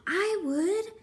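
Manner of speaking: high, loud eager answer; a prickly urchin says yes; spiky sea urchin. A narrator's reading. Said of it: "answered a spiky sea urchin".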